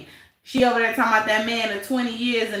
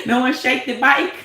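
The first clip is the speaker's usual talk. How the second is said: laughing it out louder; 4 dB louder than usual. Real, not acted. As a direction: laugh loudly through the words.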